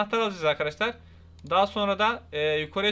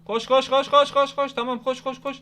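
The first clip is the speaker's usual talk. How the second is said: loud, urgent run, run, run; urgent shouting; 5 semitones higher, 5 dB louder than usual. Real, not acted. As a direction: shout it like a sprint. Urging himself to run in game.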